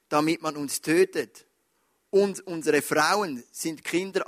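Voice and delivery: solemn scripture reading from the pulpit. Acted. Reads Bible passage.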